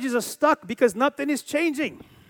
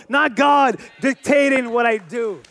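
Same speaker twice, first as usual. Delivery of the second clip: preaching shout; slower than usual. Real, not acted. Preacher's rising climax.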